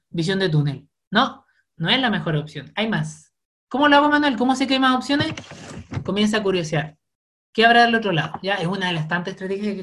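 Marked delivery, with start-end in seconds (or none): 3.7-5.3 imitating a viewer. Viewer asking the psychologist.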